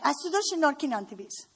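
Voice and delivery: "Աստծո շնորհքին հանդիպիս" rattled off very fast, like a light scolding; Grandma's upset-sounding blessing. Retold or imitated. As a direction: imitate Grandma snapping out the blessing at top speed. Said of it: "the way she would say it is like".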